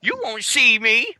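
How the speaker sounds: sing-song taunt at the co-host, drawn out; teasing catchphrase. Pretend.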